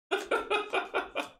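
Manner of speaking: high, voiceless laugh. Real, not acted. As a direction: let out a high burst of laughter. Laughs while shuffling the cards.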